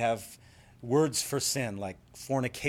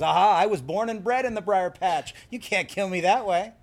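high, loud trickster crowing; Brer Rabbit; 6 semitones higher, 5 dB louder than usual. Acted. Rabbit escapes the fox, triumphant gloating. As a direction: gloat over the fooled fox. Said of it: "He says".

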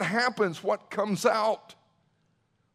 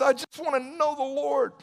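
raised, high-pitched quote; impassioned declaration; 7 semitones higher than usual. Retold or imitated. Preacher quoting what Paul says, impassioned declaration. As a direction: voice Paul's longing with lifted, fervent pitch. Preacher voices Paul's longing.

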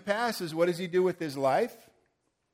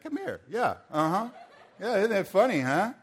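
chuckling through the words, higher; laughing along; 4 semitones higher than usual. Real, not acted. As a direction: laugh while calling them up. Laughing with volunteers on stage.

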